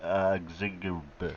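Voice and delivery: reading random letters aloud as backwards speech. Pretend. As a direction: rattle off gibberish syllables as if reversed. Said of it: "I'll say it backwards".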